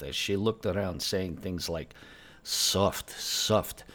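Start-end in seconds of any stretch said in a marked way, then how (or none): 2.4-3.8 whispered grumble, under the breath; grumbled under breath. Retold or imitated. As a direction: mutter it to yourself. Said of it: "grumbled under her breath".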